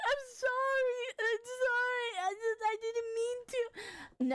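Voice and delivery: mock very high, slow, teary pleading tone. Retelling how she used to apologize when yelled at: imitating her own past tearful apology. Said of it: "I would be crying".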